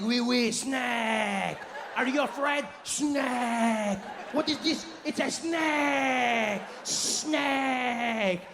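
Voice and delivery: high, drawn-out Frenchman's jeering; mocking French accent. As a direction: taunt in a stretched-out French accent. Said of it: "these two carry on for".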